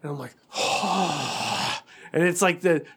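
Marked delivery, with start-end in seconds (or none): 0.5-1.8 long heavy sigh; drawn-out sigh of dawning anger; exasperated sigh. Retold or imitated. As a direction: let out a long, fed-up exhale.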